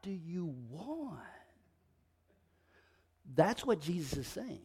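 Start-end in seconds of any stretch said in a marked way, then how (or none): 0.0-1.2 loud, drawn-out annoyed yell; exasperated yell. Acted. God flinging open the door at endless pounding, exasperated shout. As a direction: burst out on WHAT, stretching the words in exasperation. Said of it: "I'm gonna get so annoyed at you coming".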